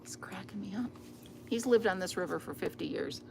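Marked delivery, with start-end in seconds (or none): 0.0-0.9 whispering. Real, not acted. Whispering, amused at neighbor.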